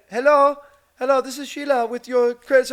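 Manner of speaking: high, loud put-on caller voice; scammer caller voice. Scam caller greeting him, high put-on voice. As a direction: play the fake friendly caller. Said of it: "she's like".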